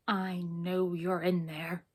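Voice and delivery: slow, low dragon rumble; deep rumbling dragon. Acted. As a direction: rumble it out like a lurking beast. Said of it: "rumbled a very deep voice".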